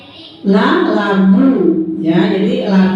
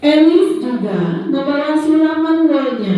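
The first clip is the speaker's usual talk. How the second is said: put-on reading to a toddler; 3 semitones higher, slower than usual. Reads a story to the children.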